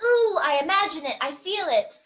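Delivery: squeamish wince on "Ooh"; cringing. Acted. Viewer reacting to an on-screen injury, cringing. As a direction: wince as if feeling their pain. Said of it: "they cringe. It's like".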